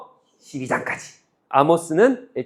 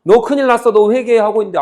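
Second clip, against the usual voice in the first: prophet's warning; 4 semitones higher, 5 dB louder than usual. Retold or imitated. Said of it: "아모스는".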